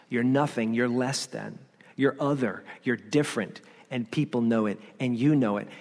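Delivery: low, subdued put-downs; understated, discouraging accusation; accusing inner voice. Acted. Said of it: "is accusing you".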